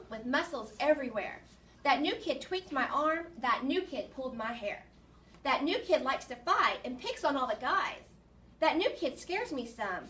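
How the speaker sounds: put-on rhythmic, emphatic children's poem recitation; poem read-aloud. Teacher reads a poem about a tough new kid, rhythmic read-aloud. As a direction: punch the beat of each rhyming line.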